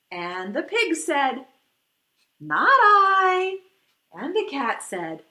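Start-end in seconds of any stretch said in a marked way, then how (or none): 2.4-3.6 a loud, blunt "no" from the duck; loud refusal. Acted. Duck refusing to help the little red hen, loud blunt refusal. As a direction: bark it out, flat refusal.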